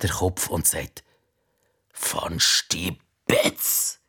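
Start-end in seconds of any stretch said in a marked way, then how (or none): 1.9-4.0 slow, breathy spitting of the name; contemptuous whispered name; spat out. Acted. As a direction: spit the name out in disgust. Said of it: "Sie spuckt das Wort fast aus".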